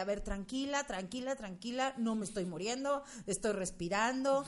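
soft, soothing herself; quietly calm yourself; calm self-talk. Retold or imitated. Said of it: "Eso me dejó el cáncer de".

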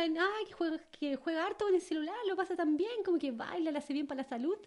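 a hint of a gushing mom; typical mom voice. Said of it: "como típica mamá".

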